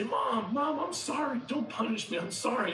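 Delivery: imitating a kid begging mom; high-pitched, hurried apology to escape punishment; child pleading. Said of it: "So I would get punished, I would be in trouble".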